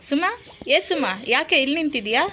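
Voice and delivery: calling out. Acted. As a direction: hail a friend from a little way off. Neighbour hailing a friend. (ಗೆಳತಿಯನ್ನು ಜೋರಾಗಿ ಕೂಗುವುದು)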